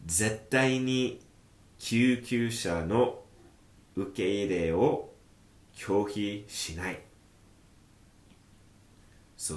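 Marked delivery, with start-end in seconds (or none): 0.0-7.0 firm doctor line. Acted. Teacher voicing a doctor vowing never to refuse ambulances, slow and firm. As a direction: spell it out slowly like a firm vow.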